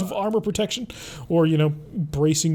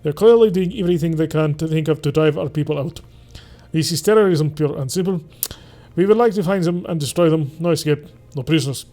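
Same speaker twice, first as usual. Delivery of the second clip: put-on Russian accent; 4 dB louder than usual. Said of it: "I started to try and do a Russian accent there".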